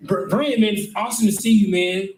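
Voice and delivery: high, overly chummy supervisor voice; fake-friendly supervisor. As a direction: play the boss who's suddenly your buddy. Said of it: "He go".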